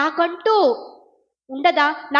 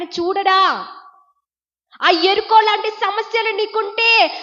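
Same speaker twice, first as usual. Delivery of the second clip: raised, insistent preacher's delivery; impassioned preaching; 5 semitones higher than usual. Real, not acted. Preacher urges the grieving that God sees, impassioned raised-voice preaching.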